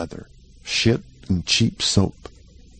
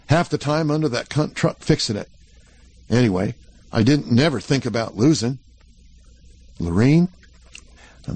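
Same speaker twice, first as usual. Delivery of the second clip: put-on a shaky, excited young cowboy; nervous cowboy showing off his news; eager cowboy Jack; 3 semitones higher than usual. Jack voiced higher.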